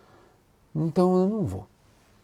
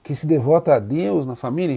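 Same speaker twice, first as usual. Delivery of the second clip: laughing joy. Retold or imitated. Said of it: "começou a rir e falou".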